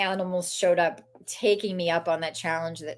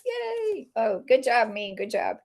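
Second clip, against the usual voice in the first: self-cheering; 4 semitones higher, slower than usual. Retold or imitated. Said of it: "right as I'm getting my applause".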